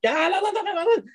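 imitating yourself panicking, voice jumping up; retold high-pitched flustered refusal; flustered protest. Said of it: "And I'm like".

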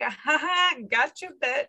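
a teasing, gloating "gotcha"; light sarcastic jab; mock sarcastic taunt. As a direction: needle them like a smug prankster. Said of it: "being so sarcastic".

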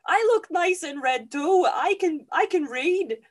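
high, loud, exasperated rant; hammed-up yelling in self-defence; indignant protest. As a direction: plead your case at full volume. Ignored bride protests her worth.

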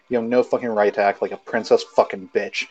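angry swearing tirade read aloud; dramatic reading. Acted. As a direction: spit out the insults with mock fury. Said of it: "I'll read it out dramatically".

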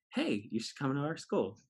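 generic recruiter pitch. Retold or imitated. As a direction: imitate a stock college-fair greeting. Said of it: "it's pretty generic. It's like".

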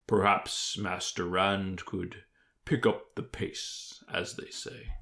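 slow, lightly voiced stately lord; measured lord. Lord hinting that Rand hurry up, measured. Lord politely hurries the storyteller.

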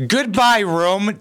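sentimental fake goodbye to a hotel room; hammed-up tearful farewell; mock farewell. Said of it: "Would you have to say".

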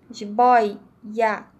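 "jiboia" with a doubled i, boi-ia; i pronunciado em dobro. Shown as a demonstration. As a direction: say "jiboia" slowly, the i heard twice. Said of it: "como se pronunciasse o i duas vezes". ("jiboia" com o i duplo, boi-ia)

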